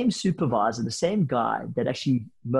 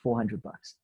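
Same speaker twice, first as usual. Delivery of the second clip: softer, sheepish admission of the sum; 6 dB quieter, slower than usual. Retold or imitated. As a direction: mumble it like you're ashamed of the amount. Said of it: "very sheepishly".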